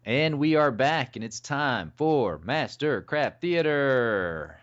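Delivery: slow, stretched show-intro voice; mock-grand announcer. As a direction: welcome them back with drawn-out pomp. Co-host announces segment.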